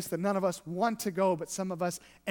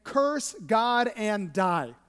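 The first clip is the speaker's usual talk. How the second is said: wife's slow command; 4 dB louder, much slower than usual. Retold or imitated. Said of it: "his wife say".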